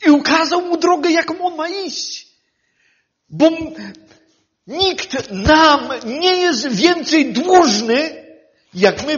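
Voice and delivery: loud fervent preaching, slowing at the end; rising sermon fervour; preaching at full force. Acted. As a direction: proclaim it to the whole church.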